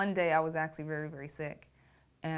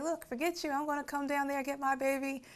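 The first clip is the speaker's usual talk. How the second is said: higher, defiant brush-off; determined mother; 9 semitones higher than usual. Retold or imitated. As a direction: dismiss him and set off for her baby. Mother dismisses father, determined.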